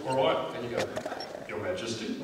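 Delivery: low-pitched stage manager briefing. Acted. Stage manager telling performers how to meet the Queen, low voice. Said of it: "this middle-aged stage manager walks around".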